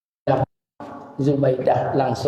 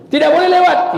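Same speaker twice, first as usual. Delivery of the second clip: startled question; 7 dB louder than usual. Acted. Sulaiman checks the deadline with guru.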